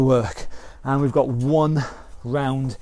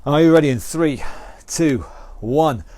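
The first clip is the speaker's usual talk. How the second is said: raised coach's voice over the workout; calling out cues; 3 dB louder than usual. Real, not acted. Fitness coach rallying the class before the round, loud and energetic. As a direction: call it out to the class, loud and upbeat.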